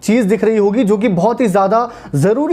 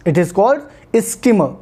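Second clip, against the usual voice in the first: slow teaching line; much slower than usual. Shown as a demonstration. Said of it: "teaching a new word".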